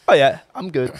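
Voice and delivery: slightly lilting imitation of a mate; a touch of his lilting tone; lilting texter tone. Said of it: "he was like".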